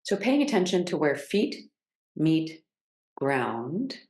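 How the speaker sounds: unhurried guiding voice with long pauses; measured meditation cues, settling on each phrase; guided grounding practice. Real, not acted.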